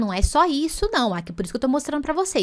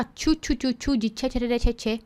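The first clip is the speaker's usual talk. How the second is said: playful tchu chant. Shown as a demonstration. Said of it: "De onde veio esse tchutchucão".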